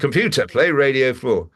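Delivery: acted impatience at a voice assistant; insistent command. Repeats command after being corrected.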